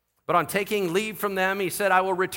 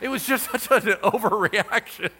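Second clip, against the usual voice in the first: loud, high laughter through the words; laughing; 6 semitones higher, 5 dB louder than usual. Real, not acted. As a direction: crack up at your own overreaction. Laughing at own overreaction.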